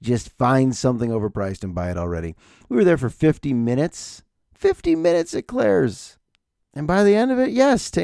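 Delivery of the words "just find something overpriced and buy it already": miserable worker. Retold or imitated. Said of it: "miserable Claire's workers".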